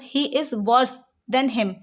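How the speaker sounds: slow, deliberate rule reading; slow dictation read. Shown as a demonstration. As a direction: read the rule out slowly for students to write. Slow dictated example sentence. (धीरे-धीरे नियम पढ़ना)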